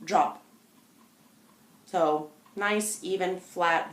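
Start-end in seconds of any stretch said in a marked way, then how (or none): 0.0-0.4 calm expectant command. Shown as a demonstration. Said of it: "simply as if I expect it".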